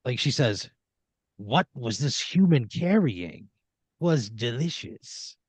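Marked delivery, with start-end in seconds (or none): 1.4-5.4 lightly voiced, slow snake character; a slow, savoring hint of a sea monster; giant sea snake. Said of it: "the snake sort of sits up".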